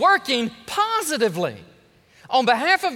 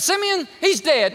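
dramatic Jacob; 7 semitones higher, 5 dB louder than usual. Acted. Mocking Jacob's hyperbole.

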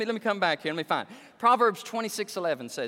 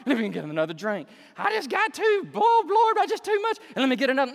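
mock tipsy whine, rising higher; drunk backslider; 5 semitones higher, 4 dB louder than usual. Preacher mocking a drinker who keeps sinning, hammed-up drunk whine. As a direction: play a sloppy drinker begging the Lord. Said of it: "You don't keep saying".

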